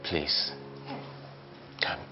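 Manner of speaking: whimpering plea on his knees; desperate begging. Acted. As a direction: beg her not to leave, broken. Husband kneeling, begging wife.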